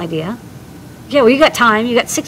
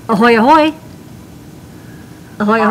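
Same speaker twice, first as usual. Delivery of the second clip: hearty pirate hail; pirate greeting; faster than usual. Acted. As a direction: sing out ahoy like a pirate. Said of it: "today is Talk Like a Pirate Day".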